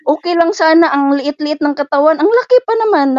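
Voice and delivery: mock the employer's whining; mock madam. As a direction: maid imitating her madam's complaint. Mimicking employer's complaint.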